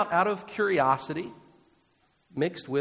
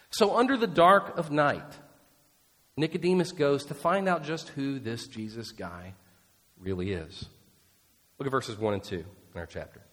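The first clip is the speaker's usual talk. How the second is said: ordinary talk, nothing marked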